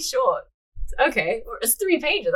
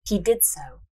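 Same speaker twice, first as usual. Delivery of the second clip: measured storyteller's reading; story narration; 4 semitones lower, slower than usual. A narrator's reading. Narrator reading a fortune-teller scene, measured narration. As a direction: read the tale aloud, unhurried.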